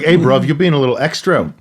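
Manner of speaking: lightly put-on cockney British accent; bad British accent. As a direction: toss off a mock British accent, knowingly terrible. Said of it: "That was a terrible accent that I just did".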